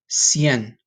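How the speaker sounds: Cien in one syllable, falling; Spanish cien. Shown as a demonstration. Teacher modelling Cien for students, clear Spanish. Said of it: "this is how you're gonna say it".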